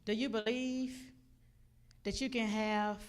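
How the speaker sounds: lightly voiced God posing a solemn question; God's voice. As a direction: ask it deliberately, phrase by phrase. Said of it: "He said, God said".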